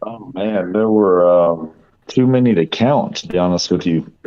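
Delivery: a bit raspy, voice worn out. Real, not acted. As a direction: speak with a raspy, tired voice. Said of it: "I sound a little raspy".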